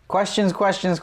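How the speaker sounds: questions said high and sing-song; dramatic, high. Real, not acted. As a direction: raise the pitch on both words, theatrical. Mock-dramatic sigh over mysteries.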